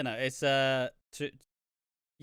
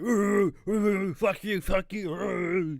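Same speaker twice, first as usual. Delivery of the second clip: higher, louder yapping dog voice; mock barking dog; 6 semitones higher, 6 dB louder, much slower than usual. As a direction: bark the words like a dog behind a fence. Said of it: "like, the dogs barking behind a fence".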